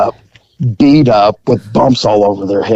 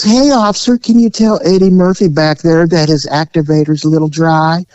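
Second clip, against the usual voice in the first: hillbilly voice; 4 semitones higher than usual. Retold or imitated. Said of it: "he goes".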